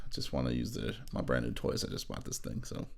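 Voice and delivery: ordinary talk, nothing marked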